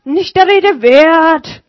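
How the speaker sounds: lightly voiced Martin; over the shoulder. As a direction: toss it back over the shoulder. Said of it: "sagte er über die Schulter".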